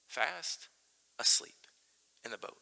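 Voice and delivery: whispered word by word, with pauses; hushed whisper. Acted. Preacher describes sleeping Jonah to the church, hushed whisper. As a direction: drop to a whisper and separate the words.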